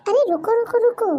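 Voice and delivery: high call to stop them. Acted. Host calling back viewers who are leaving, high-pitched.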